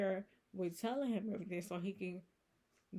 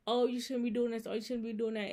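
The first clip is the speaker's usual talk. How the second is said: mock scolding; 4 semitones higher, 5 dB louder than usual. Mocking friends' past warnings.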